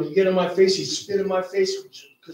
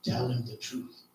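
small voice; 5 semitones lower, 11 dB quieter than usual. Retold or imitated. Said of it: "a small voice said".

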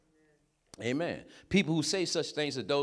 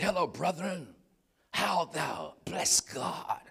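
mock pious churchman, pitched up; put-on holy talk; 5 semitones higher, slower than usual. Friend from Bible college greets an old schoolmate, put-on holy talk. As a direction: imitate an affected, sanctimonious brother. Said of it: "Don't nobody from John Marshall talk like that".

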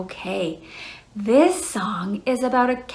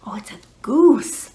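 whispering; 5 dB louder than usual. Acted. Revealing next animal to kids.

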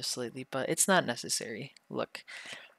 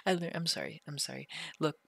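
desperate pleading; 2 semitones higher, 6 dB quieter than usual. Acted. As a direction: beg for mercy after being tickled. Begging for the tickling to stop.

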